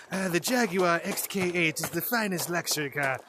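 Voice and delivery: put-on posh-ad English accent, drawn vowels. Voice actor improvising a Jaguar ad, English accent. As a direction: read it like a British luxury car ad. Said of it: "You're no good at an English accent".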